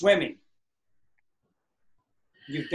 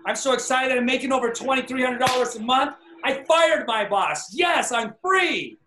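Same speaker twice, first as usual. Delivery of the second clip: higher, jubilant declaration; excited affirmation; 6 semitones higher than usual. Shown as a demonstration. Coach demos a joyful affirmation for the team. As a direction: celebrate each line as true now. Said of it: "another part of my affirmation".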